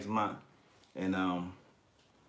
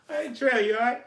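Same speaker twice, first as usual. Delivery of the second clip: asking if he's okay while laughing high and loud; laughing mock concern; 7 dB louder than usual. Real, not acted. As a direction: fake concern broken by laughter. Asks through laughter, mock concern.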